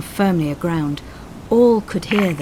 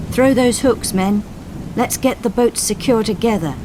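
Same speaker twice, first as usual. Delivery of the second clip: higher, louder command over the sea; loud commanding call; shouted order; 6 semitones higher, 4 dB louder than usual. Acted. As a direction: call the crew to secure the boats. Coxswain ordering crew.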